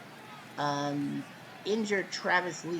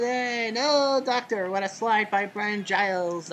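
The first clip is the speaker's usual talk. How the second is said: excited call; 3 semitones higher, 6 dB louder, slower than usual. Acted.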